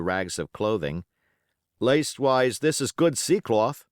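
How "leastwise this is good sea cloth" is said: George Merry. Acted.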